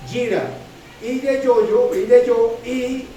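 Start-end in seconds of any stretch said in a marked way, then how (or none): 0.1-0.5 "gira" said with its final A accented; stress on final syllable. Shown as a demonstration. Preacher repeating the Hebrew term, "gira" stressed on final A. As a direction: land the stress on the A ending "gira". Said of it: "con acento en la".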